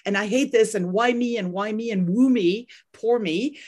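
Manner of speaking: lightly acted self-pity, no real tears; a touch of poor-me whining; mock whining. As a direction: run through the complaints in a mild mock whine. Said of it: "crying and whining and kicking and screaming and saying".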